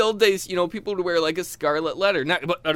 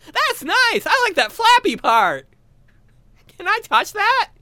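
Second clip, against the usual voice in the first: mock sexy voice; 6 dB louder than usual. Continues mock bedroom voice.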